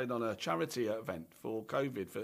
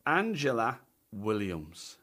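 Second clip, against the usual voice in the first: slow, drawn-out name reveal; lingering, measured announcement of the name; exotic-sounding; 4 semitones lower, slower than usual. Shown as a demonstration. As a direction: present ANGELA WILLIAMS like a really exotic name. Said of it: "You said that like it was gonna be something really exotic".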